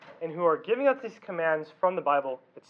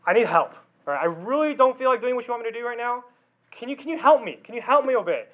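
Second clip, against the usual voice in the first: sincere plea demo; 2 semitones higher than usual. Shown as a demonstration. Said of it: "Say this, this one thing".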